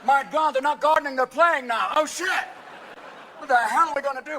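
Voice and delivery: mock outraged old club members; old wasp panic. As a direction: gasp it like scandalized old rich golfers. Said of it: "old waspy motherfuckers go".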